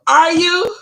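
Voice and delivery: loud, high rising disbelief; real incredulous outburst; surprised question. Real, not acted. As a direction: react to startling news, voice shooting up. Reacts to viewer's comment.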